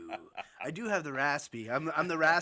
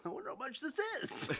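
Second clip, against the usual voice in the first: laughing; 11 semitones higher, 4 dB quieter than usual. Retold or imitated. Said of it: "I still continually go".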